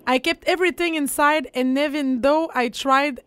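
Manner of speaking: English lyrics with a German accent. Shown as a demonstration. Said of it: "Tu parles anglais avec un accent allemand".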